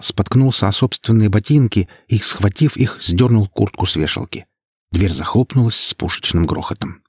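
usual speaking voice

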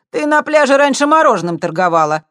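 light up as you recall her; perking up. A narrator's reading. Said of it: "оживился другой молодчик". (оживлённо, громче и выше)

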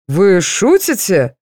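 usual speaking voice

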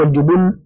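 الجبن with doubled ن and u on ب; doubled nun, damma. Shown as a demonstration. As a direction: say الجبن as jubunn, stressing the long n. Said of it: "بتشديد النون وضم الباء".

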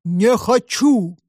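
drawn-out monster roar. A narrator's reading. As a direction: roar it like a hidden beast. (рёв чудовища)

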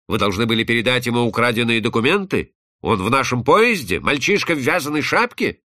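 firm interrogation, rising at each question; loud, resolute questioning. Acted. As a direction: press for answers decisively. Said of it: "спрашивал громко, решительным голосом".

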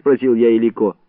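ordinary delivery

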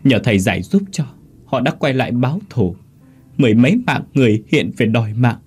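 a frightened spirit begging, lightly voiced; mild crying ghost. Dead mother warning her son and the master, mildly tearful and rising. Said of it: "bà lại khóc".

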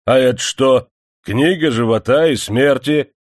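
mock outrage at the worker; the manager flushes and cries out in indignation; indignant outcry. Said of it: "багровея вскрикнул Любимов".

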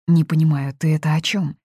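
ordinary delivery

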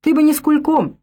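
grumbling rebuke. A narrator's reading. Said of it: "ворчал он".

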